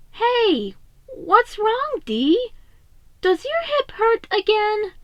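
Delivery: put-on high, concerned young voice; worried little brother. A narrator's reading. Mikey crouching beside hurt Donnie, worried and gentle. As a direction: gently ask your hurt brother what's wrong. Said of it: "Mikey quickly came over and crouched down".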